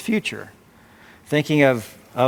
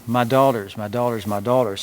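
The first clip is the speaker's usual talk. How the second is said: affectionate; 3 semitones lower than usual. Acted. Naomi's tender address to her daughters-in-law. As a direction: say it like a loving mother. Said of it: "a term of affection".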